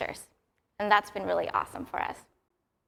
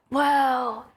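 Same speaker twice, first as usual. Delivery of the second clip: imitated excited yell; 3 semitones higher, slower than usual. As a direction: retell a child's awed outburst. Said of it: "he yelled out".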